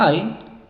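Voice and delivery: "ai" as the English diphthong "eye"; long I sound. Shown as a demonstration. Teacher contrasts vowel sounds for students, "ai" said as long "eye". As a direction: stretch "ai" out as a long I. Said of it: "a veces la vocal suena".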